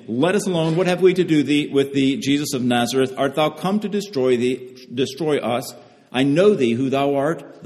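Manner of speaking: mild mock outcry, pitched a little up; retold crying out. Preacher quoting an unclean spirit to Jesus, mildly crying out. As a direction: quote the spirit's protest as a restrained cry. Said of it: "and he's crying out".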